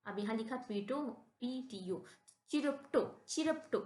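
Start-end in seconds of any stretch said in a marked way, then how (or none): 2.5-3.8 चिरप्टो broken into syllables, ch first, higher and louder; careful syllables. Shown as a demonstration. Teacher models it for students, syllable by syllable. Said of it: "इसको हम पढ़ेंगे चिरप्टोफोबिया".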